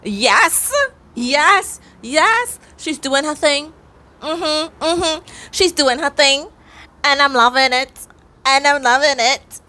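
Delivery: high-pitched, gleeful hyping up; high, punchy, repetitive celebration; excited cheering. Real, not acted. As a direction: cheer her on with mounting delight. Cheering the heroine on, repeatedly.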